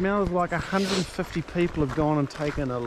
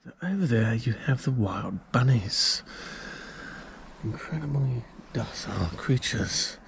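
nature documentary; 5 semitones lower than usual. Acted. Mock nature presenter about bunnies.

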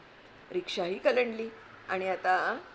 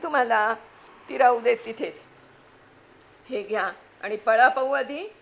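frantic aunt; 3 semitones higher, 5 dB louder than usual. Acted. Wife panicking at husband as flood comes, frantic scolding. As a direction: snap at the husband while grabbing valuables.

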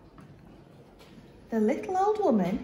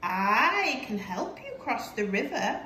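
friendly. Acted. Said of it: "in a friendly voice".

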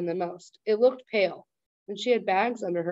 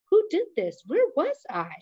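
much higher, louder frantic questions; frightened old woman losing her grip; panicked grandma; 9 semitones higher, 4 dB louder than usual. Acted. Confused grandma confronts family.

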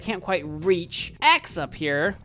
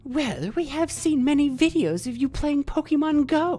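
villain voice; 5 semitones higher than usual. Acted. Villain voice challenging hero.

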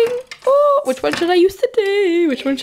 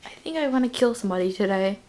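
creepy killer voice; 8 semitones lower, 7 dB quieter, faster than usual. Acted. Kids acting out a killer.

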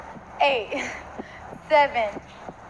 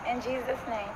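quiet prayer; 11 dB quieter than usual. Real, not acted. Quick prayer before reveal.

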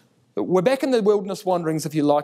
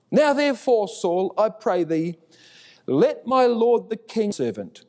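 shouting down; 6 semitones higher than usual. Acted. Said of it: "shouting down the valley".

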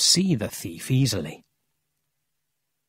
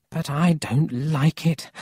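uneasy doubt; 5 semitones higher than usual. Acted. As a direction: voice raised a little in doubt. Grandmother's first worried remark, then repeated.

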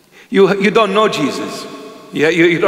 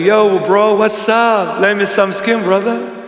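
bishop talking street; 3 semitones higher than usual. Retold or imitated. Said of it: "see the bishop coming and say".

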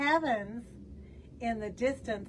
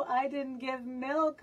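moaning cow; 2 semitones higher than usual. Acted. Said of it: "moaned the cow".

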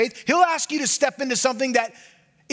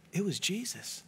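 hushed; 4 semitones lower, 13 dB quieter than usual. Real, not acted. Preacher drops to hushed repeat.

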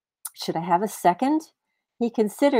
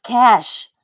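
louder, shocked repeat of the word; startled echo; 3 semitones higher, 8 dB louder than usual. Acted. Man echoes his wife's demand in loud disbelief. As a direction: blurt it out in disbelief.

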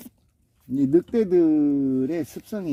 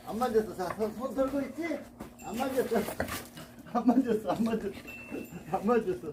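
sweet coaxing; 6 semitones higher, 9 dB quieter than usual. Real, not acted. Coaxing dog, high and soft.

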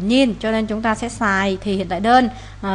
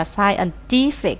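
"scientific" stressed on TIF; third-syllable stress; much slower than usual. Shown as a demonstration. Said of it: "nhấn âm ba".

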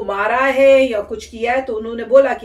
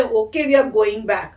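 peaceful; 2 semitones lower, much slower than usual. Retold or imitated. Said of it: "इतनी peacefully बोल रहे हैं".

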